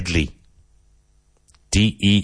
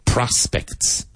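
PROS-pects, higher on the first syllable; first-syllable stress; 4 semitones higher than usual. Shown as a demonstration. Teacher showing learners the emphasis, stress opening "Prospects". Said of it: "Emphasis on the first syllable".

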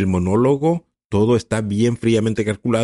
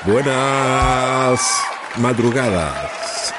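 shouted greeting; 3 semitones higher, much slower than usual. Real, not acted. Greeting the podcast audience.

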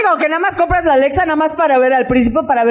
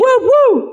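dog bark imitation; 9 semitones higher than usual. Imitating Alexa barking.

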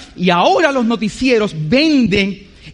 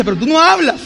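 higher-pitched mild complaint; complaining partner; 5 semitones higher than usual. Retold or imitated. Preacher quoting his partner's usual complaint, mildly reproachful. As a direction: lightly mimic a partner's reproach. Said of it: "ella siempre me dice".

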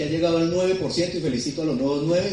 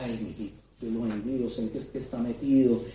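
worried mother; 3 semitones lower, 3 dB quieter than usual. Retold or imitated. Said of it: "mi mamá era".

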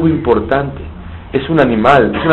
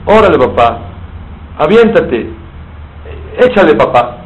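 excited coaxing, higher; egging on dad; 4 semitones higher than usual. Acted. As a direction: cheer him on to buy it. (animando al papá con entusiasmo, más agudo)

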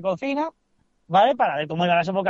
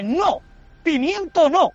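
smug reply; 5 semitones higher, slower than usual. Retold or imitated. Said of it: "yo avispadamente le dije".

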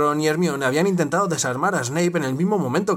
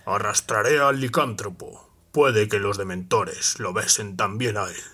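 Snape's voice; 7 semitones lower than usual. Acted. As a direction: savour every cruel word. Snape threatens.

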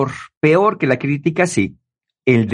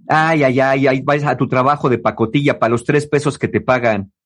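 mocking scorn. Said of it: "así como haciendo burlas de".

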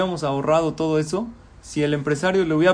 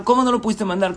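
high, sharp rebuke; scolding; 5 semitones higher, faster than usual. Acted. Manager scolding the secretary for the email, angry. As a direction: scold her hard.

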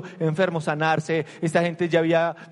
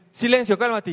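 higher and louder, a sharp command; commanding shout; 6 semitones higher, 3 dB louder than usual. Retold or imitated. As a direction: order the storm to be still. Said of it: "Jesús llega y dice".

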